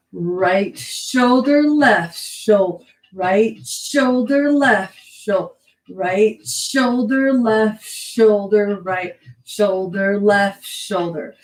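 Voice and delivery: drawn-out, rhythmic calls on the beat; dance cueing. Shown as a demonstration. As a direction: stretch the cues to fit the movement. Cues moves to the music.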